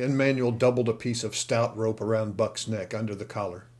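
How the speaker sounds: usual speaking voice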